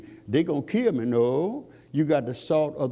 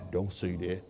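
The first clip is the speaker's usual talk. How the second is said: hushed, much softer whisper near the ear; whispered warning; 9 semitones lower, 9 dB quieter than usual. Retold or imitated. People whispering to the believer to hold back, hushed. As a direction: breathe it like a secret warning. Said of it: "people whisper in our ear".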